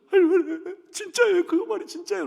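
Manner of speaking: put-on a boy begging his grandma to deny it; upset child's plea. Crying child runs to grandma, high and pleading.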